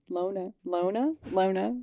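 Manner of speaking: put-on "Loner" in an accidental Australian accent, final r dropped; Australian-sounding accent. Player tests a word in character, accidentally Australian accent. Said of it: "an accent, but then it sounded Australian".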